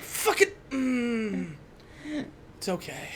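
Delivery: breathy, resigned mutter to himself; a parent giving up on being angry, quietly; mock exasperated sigh. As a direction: swallow the anger and let it go softly. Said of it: "when you're really angry at a child".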